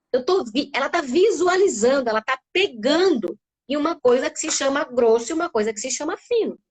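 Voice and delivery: ordinary talk, nothing marked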